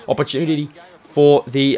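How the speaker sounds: cracking voice. Real, not acted. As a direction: voice cracks mid-word.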